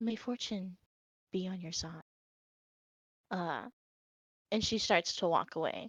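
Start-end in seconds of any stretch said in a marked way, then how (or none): 0.0-2.0 quiet, soft, hushed half-whisper, leaning close. Narrating a game scene, a woman leans forward to you and half-whispers. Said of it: "she kind of whispers as she leans forward".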